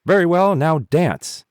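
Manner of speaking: high, loud scornful command; disgusted ants. A narrator's reading. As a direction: dismiss him with a sharp jeer. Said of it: "shrugged their shoulders in disgust".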